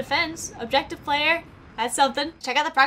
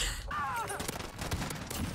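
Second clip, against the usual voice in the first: laugh; 12 semitones higher, 13 dB quieter than usual. Real, not acted. Laughing after a miss.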